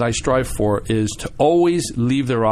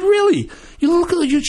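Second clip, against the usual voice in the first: mock scolding; 4 dB louder than usual. Scolding a whiny colleague.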